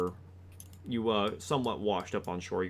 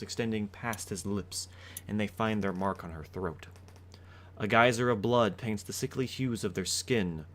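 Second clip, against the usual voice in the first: dramatic scene narration; story narration. A narrator's reading.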